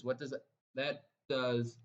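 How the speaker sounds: excited stutter on that. Real, not acted. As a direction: trip over that, repeating it. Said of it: "I'm stuttering here because I'm so excited".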